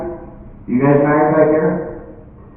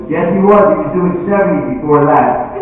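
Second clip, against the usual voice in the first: high, emphatic contradiction; tattling wife; 5 semitones higher than usual. Acted. Wife telling the cop on her husband, insistent. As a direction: jump in and correct him.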